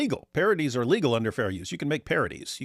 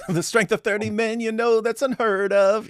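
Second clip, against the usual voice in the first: hammed-up announcer; 12 semitones higher, 5 dB louder than usual. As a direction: belt it out like a grand boast. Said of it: "there you go".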